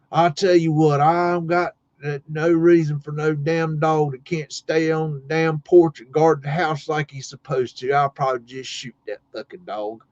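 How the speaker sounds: lightly voiced farmer grumbling, dropping off at the end; a hint of a cussing country old-timer; imitating a fed-up farmer, pitch sinking as it goes; old tobacco farmer. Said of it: "old school tobacco farmer".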